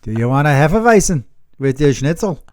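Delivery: badly faked German accent that sounds Brooklyn; a German accent that drifts to Brooklyn; attempted German accent. Shown as a demonstration. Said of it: "I don't know how to do German".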